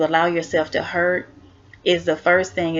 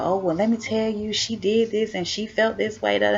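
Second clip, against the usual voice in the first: gossiping friend; 3 semitones higher than usual. Retold or imitated. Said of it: "run back and go tell".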